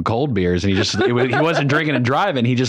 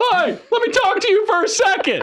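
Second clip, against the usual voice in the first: mock, very high-pitched shouted yell. Retelling going outside and yelling at him down the street: retelling yelling. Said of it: "I just start yelling".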